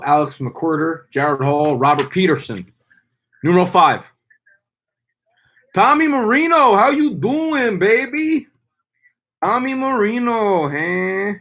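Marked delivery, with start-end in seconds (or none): 3.4-4.1 announcer call. Acted. Announces next pick. 5.7-11.3 much higher and louder, slow hype-man call; hyped high greeting. Acted. Hyped greeting of drafted player.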